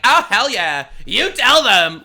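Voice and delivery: lightly mocked sassy cheer; snapping sass imitation. Commentator imitating a politician pandering to gay people, mock sass. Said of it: "this whole snapping weird thing".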